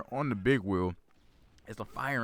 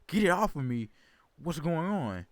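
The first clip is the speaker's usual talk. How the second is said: put-on panicked kid; 7 semitones higher than usual. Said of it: "and it's like".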